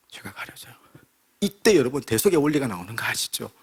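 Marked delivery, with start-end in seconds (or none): 0.1-0.7 a soft unvoiced repeat of 죄가 가려져요; whispered echo. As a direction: breathe the words out like a secret.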